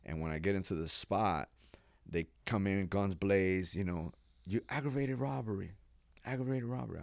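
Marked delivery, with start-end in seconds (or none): 4.5-7.0 high shouted charge; barking cop. Retold or imitated. Feds storming the room, barking the charge. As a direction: announce the charge at him.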